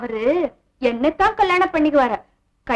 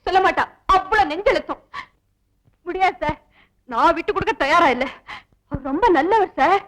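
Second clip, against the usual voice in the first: fake tearful pleading. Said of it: "பிரமாதண்டி உன் நடிப்பு".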